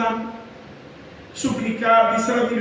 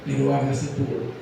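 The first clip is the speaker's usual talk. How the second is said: resigned surrender; 7 semitones lower than usual. Acted. Jesus yielding to the Father, low and resigned. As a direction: let go and accept it.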